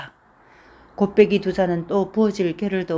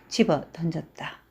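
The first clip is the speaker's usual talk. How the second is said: ordinary delivery, nothing marked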